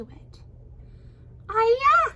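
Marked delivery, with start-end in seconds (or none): 1.5-2.1 high, loud startled cry; storybook scream. A narrator's reading. Maidservant recoils from the splashed tea, screaming. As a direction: cry out in startled disgust, much higher. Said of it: "screamed the maidservant".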